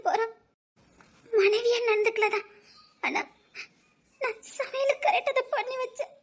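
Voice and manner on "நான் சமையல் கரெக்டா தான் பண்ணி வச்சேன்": crying. Acted. Wife crying, defending herself.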